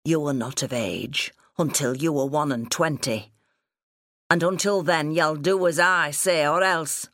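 insistent father, a touch gruff; lightly voiced stern farmer father. Father demanding explanation from daughter, mildly stern. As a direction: lay down the law, building in force.

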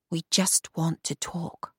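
quiet, slow reassurance; soft and slow. Acted. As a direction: say it softly, unhurried. Captor reassures abducted woman.

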